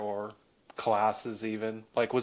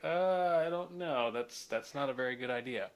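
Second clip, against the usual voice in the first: higher, hesitant skeptical voice; doubtful adult; 4 semitones higher, 3 dB quieter than usual. Retold or imitated. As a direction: mimic a doubtful grown-up dismissing the idea. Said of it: "they're like".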